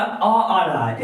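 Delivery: slow, stretched अ sound; stress on अ. Shown as a demonstration. Teacher to class stretching the अ sound slowly. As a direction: dwell on the अ, slowly. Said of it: "pronunciation क्या हो रहा है".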